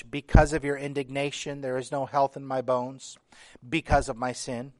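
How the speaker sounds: preacher reading the psalm, pressing every "because"; stress on because. Shown as a demonstration. Emphasising "because". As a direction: lean on each "because" in "because of my sin". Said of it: "You may have heard me emphasizing the word "because".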